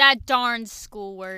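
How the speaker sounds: slow, loud hammed-up folksy grumble; slow folksy drawl. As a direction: drag it out like an old farmer. Echoing joke, slow and loud.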